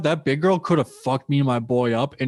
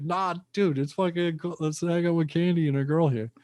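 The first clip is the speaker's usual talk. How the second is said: pleading to hang out; 4 semitones higher than usual. Retold or imitated. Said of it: "I was like".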